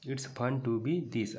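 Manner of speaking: very slow, word by word; slow reading aloud. Shown as a demonstration. Teacher re-reading the line to students, very slowly. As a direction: read it out slowly for the class. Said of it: "ऐसा होना मज़ेदार है".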